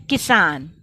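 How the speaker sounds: teacher's emphatic किसान, short first syllable, long second; jerked short i. Shown as a demonstration. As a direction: hit कि briefly, then lean on सान in किसान. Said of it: "झटके के साथ हमने बोला".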